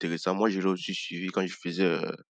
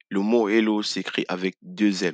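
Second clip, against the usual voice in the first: ordinary talk, nothing marked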